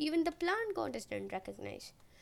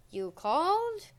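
higher, louder grand reveal; booming god entrance; 4 semitones higher, 5 dB louder, slower than usual. Pretend. Narrator pictures himself jumping out as a god, theatrical. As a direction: announce yourself like a showy god.

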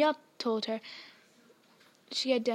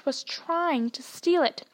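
slow whisper; whispered secret; 4 semitones higher, slower than usual. Acted. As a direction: let the secret slip under the breath. Secret blurted in hushed tone.

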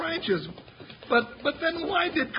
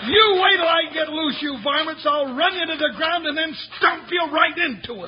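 angry threat; 3 semitones higher, 3 dB louder than usual. Acted. Bound sidekick yells threats at the gunmen, furious shout. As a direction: shout it at the men tying you up.

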